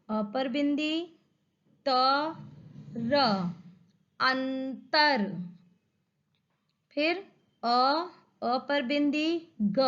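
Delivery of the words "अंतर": अंतर slowly, with a long n; nasal anusvara. Shown as a demonstration. Teacher reading aloud for children, अंतर slow with held nasal. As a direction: stretch the n in अंतर before तर. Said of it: "उसी अक्षर को वैसे उच्चारण".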